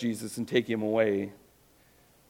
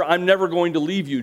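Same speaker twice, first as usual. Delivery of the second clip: mock-bravado, higher and louder; bold promise; 6 semitones higher, 6 dB louder than usual. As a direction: puff up like a boastful friend.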